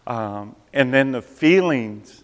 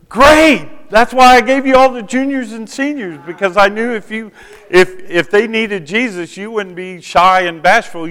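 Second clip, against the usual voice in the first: much higher, louder delighted woman; excited principal; 9 semitones higher, 8 dB louder than usual. Retold or imitated. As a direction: bubble over like a thrilled principal. Voicing enthusiastic principal.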